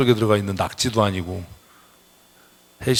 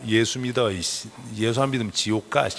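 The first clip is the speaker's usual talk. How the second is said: stern, intense warning; 2 semitones lower, 5 dB quieter than usual. Shown as a demonstration. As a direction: warn them bluntly, dropping the politeness. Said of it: "눈에 힘 빡 주고". (눈에 힘 준 단호한 경고)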